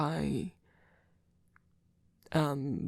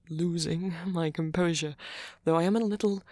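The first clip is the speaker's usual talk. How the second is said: laughing; 4 dB louder than usual. Acted. Laughs while promising composure.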